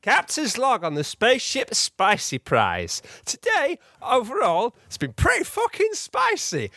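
overacted starship captain; hammy captain voice. Captain's hammy log entry.

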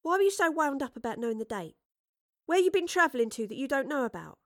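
put-on high-pitched, pressing girl's voice; inquisitive Astrid. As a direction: question the traveller in a high voice.

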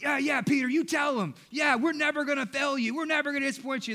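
mock crowd egging Peter on; hyped-up disciples. Disciples pumping each other up, excited cheering. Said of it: "They're like".

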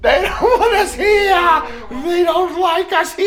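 spooky ghost voice. Pretend. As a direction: playfully voice the unwelcoming spirits. Repeats line in spooky high voice.

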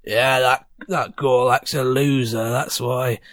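a hint of a gruff, slow barfly; grumpy goblin patron. Goblin regular sneers at Gorlak, lightly voiced. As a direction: drag it out like a smug regular. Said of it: "looks up at you and goes".

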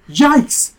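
sudden startled yell. Acted. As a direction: shout it out in alarm. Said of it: "you yell".

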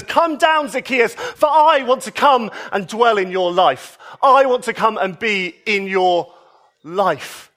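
high, ringing call of come down; joyful call. Retold or imitated. Jesus calling up to Zacchaeus in the tree, joyful and ringing.

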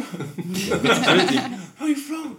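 very slow, high, laughing call; slow drawn-out call. Retold or imitated. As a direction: stretch each word as you call. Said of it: "So I was like".

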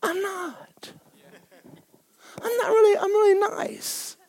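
pleading. Retold or imitated. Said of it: "And I'm like".

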